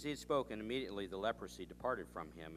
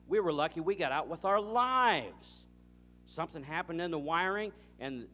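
distressed Scott; 5 semitones higher, 7 dB louder than usual. Retold or imitated. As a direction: play up the shock of nearly losing everything. Scott telling about the house fire.

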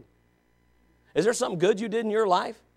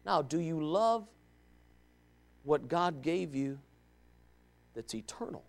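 hushed question; 6 semitones lower, 13 dB quieter than usual. Real, not acted. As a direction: draw it out, almost whispered.

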